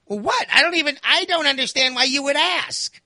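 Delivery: high, puzzled, innocent protest; mystified mother. Retold or imitated. Mother baffled by her son's complaint, high innocent protest. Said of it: "she's always mystified".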